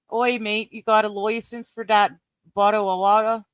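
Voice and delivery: hammed-up British accent; bad British accent. Streamer joking about British accents, bad British accent. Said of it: "we're doing extremely bad accents".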